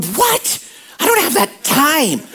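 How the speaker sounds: high-pitched startled "What?" from an imagined listener; mock objection. Preacher voicing a churchgoer who says there's no time. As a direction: play the busy churchgoer balking at the work.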